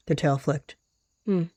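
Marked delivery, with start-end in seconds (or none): 1.3-1.4 short hummed "hmm"; thoughtful hum. Acted. Healer checking an injured leg, humming. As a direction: hum it out briefly. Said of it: "she'd hummed out".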